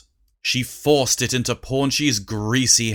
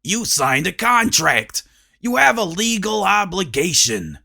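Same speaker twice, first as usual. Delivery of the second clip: unfazed; 5 semitones higher than usual. Acted. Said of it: "didn't look fazed at all".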